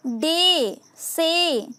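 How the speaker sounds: डे, से with lengthened "ay" endings; slow phonics examples, "daay, saay"; long A sound. Shown as a demonstration. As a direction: hold the vowel in डे and से. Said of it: "ए का long sound".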